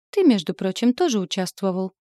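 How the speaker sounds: mild hiss. Acted. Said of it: "зашипела я".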